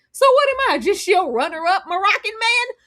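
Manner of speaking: hammed-up offense, pitch jumping up; mock indignation. Imitating him learning she was engaged, mock indignant. Acting out his jealous reaction.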